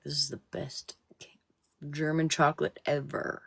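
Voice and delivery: hushed, delighted whisper about the chocolate. Retold or imitated. Wife imitating husband's thrilled whisper over German chocolate. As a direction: breathe it like a secret treat.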